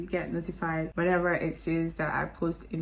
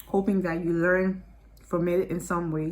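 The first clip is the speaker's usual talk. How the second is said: talking through popcorn; words around a mouthful of popcorn; munching popcorn; 4 dB louder than usual. Real, not acted. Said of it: "Sorry, I'm eating popcorn".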